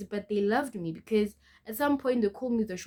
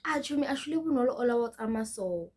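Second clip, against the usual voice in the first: quick, higher imitation of a bully; mock a classmate to a friend, fast and raised; mimicked mocking; 5 semitones higher, 4 dB louder, faster than usual. Bully passing by tells her friend about the girl, mimicked mocking.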